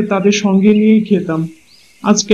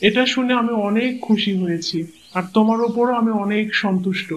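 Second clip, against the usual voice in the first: soft grateful praise; 7 dB quieter than usual. Acted. Husband softly praises wife.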